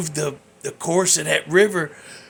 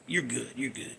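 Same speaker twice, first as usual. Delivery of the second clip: mock reassurance; 4 semitones lower, 10 dB quieter than usual. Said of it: "You wanna hear".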